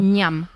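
"ñam" de bocado; mordisco imitado. Acted. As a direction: imitar un bocado de araña con la voz. (mordisco fingido, corto)

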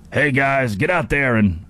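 lightly voiced gruff coach impression; a hint of an accidental movie-star pep talk; rally the players in a put-on voice; Al Pacino. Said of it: "Al Pacino".

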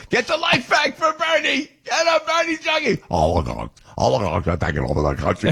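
high, put-on Brooklyn Bernie Sanders voice; mock Bernie in a squeaky Brooklyn accent; hammed-up Brooklyn Bernie; Bernie impression. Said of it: "with the Bernie, uh, accent".

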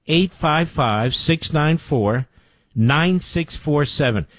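each digit slow and deliberate; slow emphatic number read; slow, spelled-out phone number. Shown as a demonstration. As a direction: read it out slowly so listeners can dial. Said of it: "second, slower read of number".

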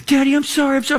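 put-on high, pleading girl's voice; daughter apologizing. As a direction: repeat sorry like a worried kid. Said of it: "She's like".

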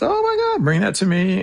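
imitated squeal, leaping very high; excited squeal. Handler mimics detective seeing the brick, squealing. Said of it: "the detective squealed".

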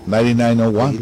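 the same number, now read out in English; English pronunciation. Shown as a demonstration. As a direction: switch to English for "Ninety-nine oh one". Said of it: "Nótese la pronunciación".

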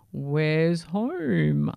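whispery bird voice; inquiring albatross. Acted. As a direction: ask as a husky old seabird. Albatross questions Sammy.

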